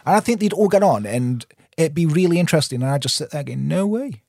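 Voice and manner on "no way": higher-pitched mock disbelief; amazed. Host imagining himself sitting between guests, amazed. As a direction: react with playful, pitched-up amazement.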